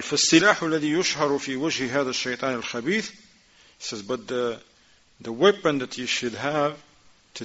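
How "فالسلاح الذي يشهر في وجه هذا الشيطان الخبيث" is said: quick, running recitation of the Arabic text; rapid text reading. Acted. Teacher reads the Shaykh's words to students, rapid recitation. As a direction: rattle through the quoted passage fast.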